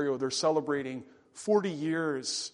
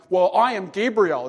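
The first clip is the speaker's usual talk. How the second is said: emphatic declaration; 7 dB louder than usual. Retold or imitated. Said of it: "it's actually very emphatic".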